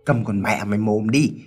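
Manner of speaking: cutting rebuke, climbing high; angry scolding. Acted. Husband cuts off his crying wife, angry scolding. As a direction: cut her off and tell her off harshly. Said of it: "cắt ngang quát cho một trận".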